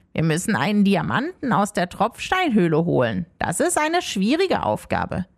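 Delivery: little ghost Rumpel. Acted.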